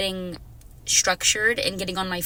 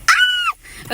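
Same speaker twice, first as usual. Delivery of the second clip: excited scream; 9 dB louder than usual. Real, not acted. Overwhelmed by the song.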